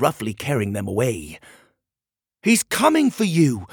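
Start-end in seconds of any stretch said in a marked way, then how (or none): 2.4-3.7 high, loud warning shout; shouted back. Acted. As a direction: shout it back as you're hauled away. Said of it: "Pockets shouted back".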